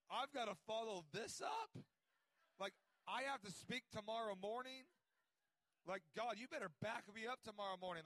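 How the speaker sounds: loud, high, frantic disbelief; half-comic panic at having to follow that; retold panic. Young preacher panicking over following Bobby Conner, loud and frantic.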